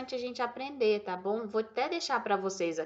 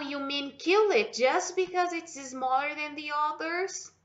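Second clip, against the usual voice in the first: Fern's outraged line; 6 semitones higher than usual. Acted. Reading Fern's line aloud.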